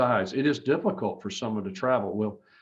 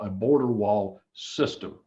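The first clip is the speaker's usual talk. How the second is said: slow, weighted "a border wall system" with the word "system" leaned on; slow down and press hard on "system"; stress on system. Real, not acted. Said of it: "I emphasize the word system".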